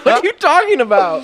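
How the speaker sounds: high, loud laughing impression of the ex; mock ex girlfriend. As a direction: play her baffled denial while laughing. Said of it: "And she's like".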